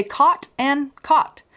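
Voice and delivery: both "caught" words given one identical vowel; American merged vowel in "caught"; caught-cot merger. Shown as a demonstration. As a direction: say "caught" and "caught" exactly alike, American style. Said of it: "these words sound identical".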